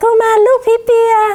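put-on high-pitched ghostly child voice.

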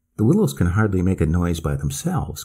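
ordinary delivery, nothing marked

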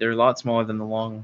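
plain

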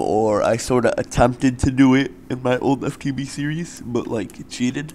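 speaking through a yawn. Telling viewers about your past series using thermal expansion, yawning while talking. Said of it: "I was yawning".

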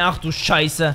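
ordinary talk

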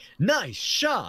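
high game-show-style video-game announcer voice. Describing a video game announcer to another speaker: Wii announcer voice. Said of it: "Wii announcer, like, the dude that's like".

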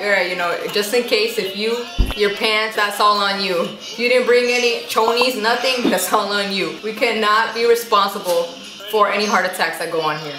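ordinary delivery

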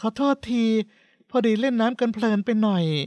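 timid, meek, sheepish, slightly high little voice. With everyone staring at her and her husband, a wife answers, meek and sheepish. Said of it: "เพชรีทำเสียงอ่อย".

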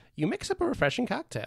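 put-on, very high, swooping character voice. Describing mixing a cocktail, done in his voice: imitated character voice. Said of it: "I did that in his voice".

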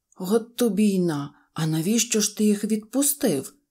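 honest, surprised, puzzled astonishment. Narrator reads the uncle beaver's question to the donkey, surprised question. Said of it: "здивовано запитав дядечко Бобер".

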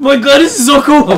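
very high, loud, thrilled, excited gushing. Unboxing a Loot Crate on camera, geeking out excitedly. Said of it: "I'm geeking out here".

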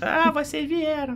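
put-on tiny, very high little girl voice. Trying out a voice for a girl character, in a little girl voice. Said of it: "Como é que eu faço voz de menininha agora".

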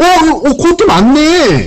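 all worked up, high, slow, excited outburst.

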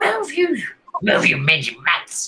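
high, swooping, shouted goblin voice. Voicing a second goblin ordering the wolves: goblin yelling. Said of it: "the other goblin yells at the wolves".

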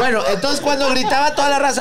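high, slow speech with laughter through it.

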